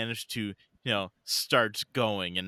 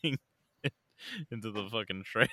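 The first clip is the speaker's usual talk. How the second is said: laughing; 4 dB quieter, slower than usual. Real, not acted. Laughing through the story.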